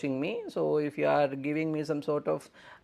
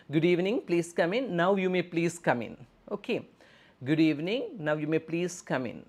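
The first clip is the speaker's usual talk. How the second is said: brighter, higher welcoming nurse voice; 5 semitones higher than usual. Shown as a demonstration. Nurse welcoming a waiting patient, higher and polite. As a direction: greet the patient warmly at the door. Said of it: "So good evening we can consider".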